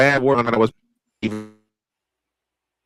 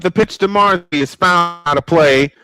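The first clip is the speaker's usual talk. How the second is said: play-by-play call. Acted. Calls the next pitch.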